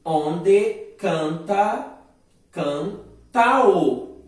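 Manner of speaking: very slow, spaced poetic syllables; slow scansion. Shown as a demonstration. Teacher scanning the second verse for the class, slowly. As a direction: beat out "Onde canta" syllable by syllable. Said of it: "Segundo verso".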